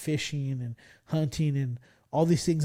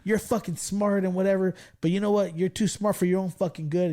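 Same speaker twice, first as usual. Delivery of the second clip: higher-pitched retold scolding; lecturing teacher; 4 semitones higher than usual. Teacher warns smart student he'll fail, scolding. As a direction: lightly imitate a Stand and Deliver teacher. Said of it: "He did the whole stand and deliver thing".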